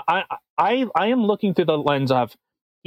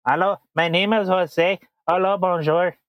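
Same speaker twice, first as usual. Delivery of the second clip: mock Mexican-French accent. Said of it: "I'm getting into".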